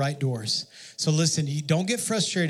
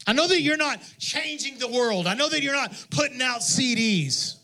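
high, gentle reassuring Jesus; tender voice of Jesus; 8 semitones higher than usual. Retold or imitated. Preacher voices Jesus to the small church, high and gentle. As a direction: speak it kindly, lifted up high.

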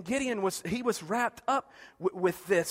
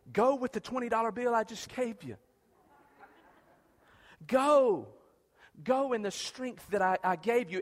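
dismissive parent. Retold or imitated. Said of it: "like we parents do our kids".

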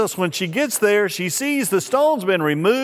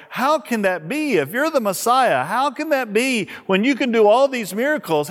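pitched higher, pleading how can that be; disbelieving question; 5 semitones higher than usual. Retold or imitated. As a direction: ask it like a confused disciple who can't accept it. Disciples' bewildered question voiced.

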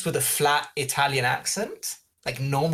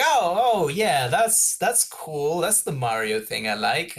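mock excited; 3 semitones higher, slower than usual. Fan retelling his reaction to a Mario sound cue, lightly excited. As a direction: retell the thrill of spotting a game reference.

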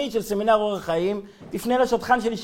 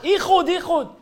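mock yell pitched higher; retold yell; 6 semitones higher than usual. Young man startled in the dark, mock yell. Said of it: "התחיל לצרוח".

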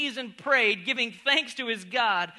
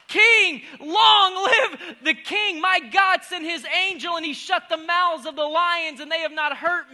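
proud proclamation; 4 semitones higher, 5 dB louder than usual. Acted. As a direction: declare it boldly to the king. Daniel's reply voiced by preacher.

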